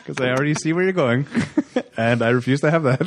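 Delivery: talking through laughter; laughing. Real, not acted. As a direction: laugh the words out. Laughing at friend's joke.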